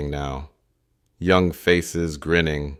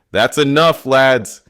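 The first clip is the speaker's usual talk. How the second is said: loud, raised veteran's reprimand; weighty authority; 8 semitones higher, 7 dB louder than usual. A narrator's reading. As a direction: step in firmly and cut them off. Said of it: "His voice carries the weight of years".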